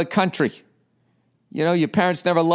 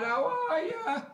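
mock cutesy greeting; 14 semitones higher, 10 dB quieter than usual.

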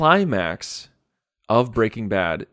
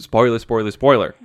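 chanted spoiler alarm; alarm beeping; 6 dB louder than usual. Pretend. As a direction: call it out like a siren.

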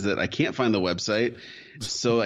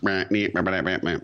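monotone mockery; 3 semitones lower than usual. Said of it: "Amanda's voice was a little monotone".

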